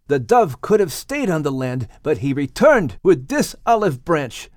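father rejoicing over the sign; exclaiming Noah. Acted. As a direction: praise God with joyful relief. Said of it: "Noah exclaimed".

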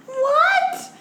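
high, loud, laughing through the words; laughing disbelief. Real, not acted. Laughing at her cohost's bear noise, high and loud. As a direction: squeal it out mid-laugh. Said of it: "That was your bear sound".

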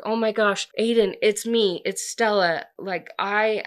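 acted frantic greeting; rushed relief. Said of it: "really rush herself".

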